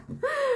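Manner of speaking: sharp high gasp for air; real breathless gasp; gasp for breath. Real, not acted. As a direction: suck in a quick breath, laughing. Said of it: "gasping for breath".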